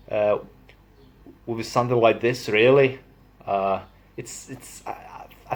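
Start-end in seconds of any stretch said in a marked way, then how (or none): 1.5-3.0 light Yorkshire accent. Shown as a demonstration. Vlogger attempting Yorkshire, lightly accented. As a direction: try a touch of Yorkshire. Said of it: "Yorkshire would be".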